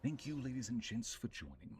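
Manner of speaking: lightly put-on storyteller narration; measured narrator delivery, falling away at phrase ends. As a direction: introduce it like a narrator. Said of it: "do this in my narrator voice".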